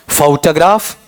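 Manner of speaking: फोटोग्राफ as "fau-ta-graaf", rising; फोटोग्राफ with full first vowel and schwa middle; first variant. Shown as a demonstration. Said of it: "मैं चारों बोल देता हूं".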